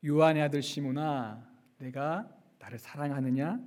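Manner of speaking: soft, hushed tender asking; gentle question. Acted. Risen Jesus gently asking Peter, soft and tender. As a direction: ask it gently, almost under the breath. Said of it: "한마디 질문을 던지시죠".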